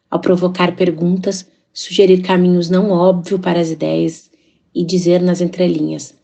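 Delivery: measured reading with pauses between phrases; literary quote reading. Acted. Author reading her writing to open the podcast, measured literary reading. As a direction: read your own lines aloud, phrase by phrase. A gente ouviu uma citação da autora pela voz da própria autora.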